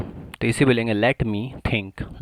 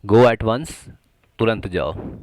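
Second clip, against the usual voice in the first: louder, punchy command; emphatic; 5 dB louder, slower than usual. Shown as a demonstration. Teacher stressing the urgency of the command, loudly. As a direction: fire it off like a real order. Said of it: "at once यानी कि अभी के अभी".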